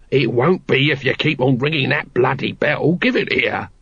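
put-on irritated old hand telling off a recruit; lightly voiced grumbling watchman. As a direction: grumble with a touch of annoyance. Nobby scolds the new recruit.

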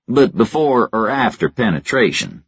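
amused, sly question; smile in his voice. A narrator's reading. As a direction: let the grin come through the words. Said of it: "with a smile in his voice".

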